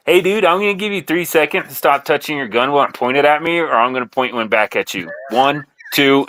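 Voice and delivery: acting the hard-nosed jerk; full a-hole. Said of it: "full a-hole".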